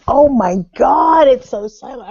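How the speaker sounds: ordinary delivery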